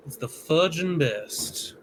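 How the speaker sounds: light cowboy twang, emphatic; folksy Southern cowboy praise; Southern accent. Pretend. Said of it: "let me get down to Southern".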